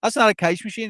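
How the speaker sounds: badly imitated Scottish accent; attempted Scottish accent. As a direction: imitate a Scottish man calling out. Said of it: "your wee Scottish man".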